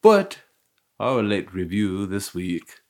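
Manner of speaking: put-on slow, muddled bougie British accent; attempted posh British. Announcing this week's late review, wobbly posh British accent. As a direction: try a proper British accent and miss. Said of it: "I don't know what accent was going on there".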